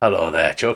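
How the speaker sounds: put-on Yorkshire accent. Narrator voicing a woman who greets chuck, in a yorkshire accent. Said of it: "And I've suddenly gone Yorkshire".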